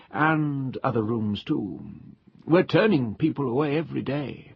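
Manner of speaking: an obliging hotel waiter gossiping to a guest; old waiter cheerfully reporting the full hotel to the guest; chatty old waiter. Acted.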